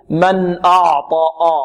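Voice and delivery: "أعطى" with a heavy, dark ayn; wrongly thickened ayn. Retold or imitated. Teacher warning against an error, ayn made heavy. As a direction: darken the vowel and ayn of "أعطى" into a back aw. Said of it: "ونحذر من تفخيم العين".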